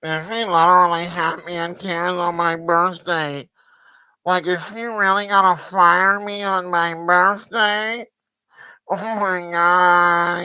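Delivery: low nasal mock of the guest; mocking the guest's birthday tears story; mock nasal whine.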